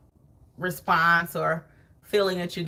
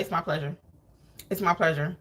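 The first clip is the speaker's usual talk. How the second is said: insincere "it's my pleasure"; 3 semitones lower, 4 dB quieter than usual. Retold or imitated. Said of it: "ugly attitude with them the whole time".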